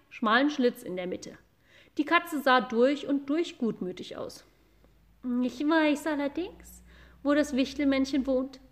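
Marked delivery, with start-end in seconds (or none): 5.4-8.6 friendly cat voice. Acted. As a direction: speak sweetly like a calm cat. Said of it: "sagte sie mit freundlicher Stimme".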